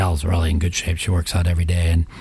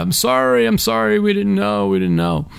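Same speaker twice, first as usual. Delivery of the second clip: scream, much higher, slower. Blocking a moving walkway with a wheelchair, retelling screaming to the people behind. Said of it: "I'm like screaming out loud".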